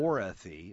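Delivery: "Dorothy" in three distinct syllables, DOR-o-thy; deliberate pronunciation. Shown as a demonstration. Director showing how the lead's name is said, deliberate pronunciation. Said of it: "because it's D O R O".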